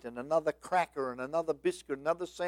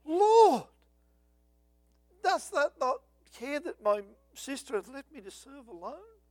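high, whiny mock Martha, pleading louder in places; bleating complaint; 8 semitones higher, 4 dB louder than usual. Martha complaining to Jesus about her sister, in a high whiny bleat. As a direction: whine at the Lord like a put-upon hostess. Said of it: "when she bleated out".

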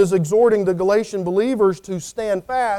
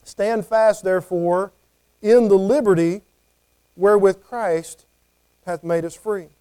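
scripture reading. Shown as a demonstration. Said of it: "the cause for standing".

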